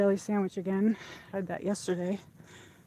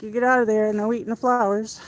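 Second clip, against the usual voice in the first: scolding shout; 2 semitones higher, 8 dB louder than usual. Retold or imitated. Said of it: "I'm like".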